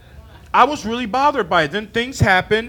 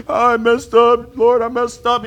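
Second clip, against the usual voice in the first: mock confession; 3 semitones higher, 5 dB louder, slower than usual. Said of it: "When I'm done doing".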